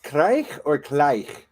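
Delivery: "krijg or krijg?", first with a rasping ch, then with a plain k; "krijg" said slowly twice with different endings; comparing two sounds. Shown as a demonstration. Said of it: "Is it".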